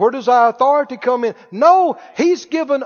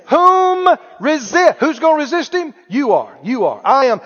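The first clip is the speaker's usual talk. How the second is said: emphatic preaching; 5 semitones higher than usual. Real, not acted. Preacher calling congregation to answer.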